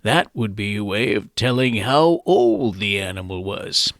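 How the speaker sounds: a hint of a creaky old-timer telling how it was; old guy voice. Host explaining horse trading, in a light old man voice. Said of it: "Let me use my old guy voice".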